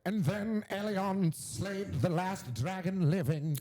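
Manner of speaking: high, soft, slow fantasy narration; audiobook narrator. Acted. Podcaster mimicking his dragon audiobook, slow soft high narration. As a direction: narrate an epic slowly in a hushed high voice. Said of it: "it's more like".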